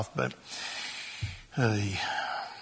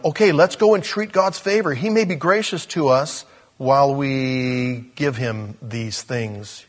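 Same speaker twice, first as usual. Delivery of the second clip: mocking tone. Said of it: "a mocking tone of".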